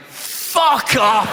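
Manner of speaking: high yelled swear as played on TV; shouted swear. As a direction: snap it out like the clip. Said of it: "it's just me going".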